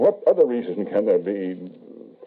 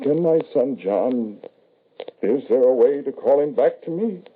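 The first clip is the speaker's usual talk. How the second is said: higher pleading voice, rising with hope; desperate plea; 7 semitones higher than usual. Acted. Grieving father pleads with the medium, high and desperate. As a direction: beg her to bring the son back.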